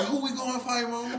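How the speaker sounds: put-on eager little girl. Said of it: "the girl was like".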